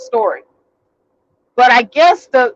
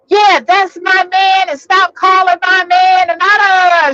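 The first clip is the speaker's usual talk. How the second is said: mock shout; 7 semitones higher than usual. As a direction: bellow it like the jealous girlfriend. Girlfriend yells down the phone.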